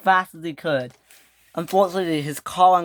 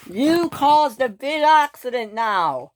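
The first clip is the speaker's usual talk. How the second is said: scolding; 8 semitones higher, slower than usual. A narrator's reading. Victor scolds Smudger.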